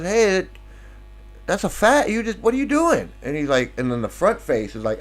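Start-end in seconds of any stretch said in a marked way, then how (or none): 0.0-3.1 higher-pitched comic protest; mock indignant reaction. Brahma's back head scolding the front one, mock indignant. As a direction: act out a startled, scolding complaint. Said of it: "he looks down and goes".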